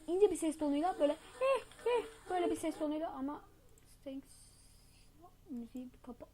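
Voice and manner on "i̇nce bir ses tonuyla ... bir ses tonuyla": thin voice. Shown as a demonstration. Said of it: "taklidini yapacağız arkadaşlar".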